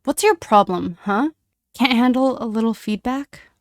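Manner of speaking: loud, mocking challenge; taunting. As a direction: goad him. Snape taunting James.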